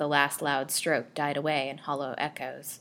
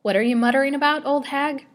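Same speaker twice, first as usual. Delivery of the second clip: higher, louder and fast, sneering at her; harsh rebuke; 10 semitones higher, 7 dB louder than usual. A narrator's reading. Doctor scolding the muttering old crone, sharp and contemptuous. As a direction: bark at the old woman in scorn.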